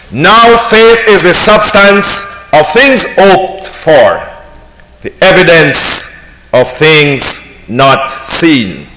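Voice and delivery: solemn scripture reading. Acted. Reads Hebrews 11:1 slowly.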